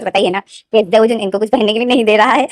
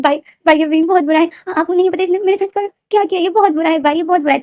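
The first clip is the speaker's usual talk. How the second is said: higher, tattling whine; high whiny complaint; 6 semitones higher than usual. Acted. To his brother about Wing: high whiny tattling. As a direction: complain to big brother like a child.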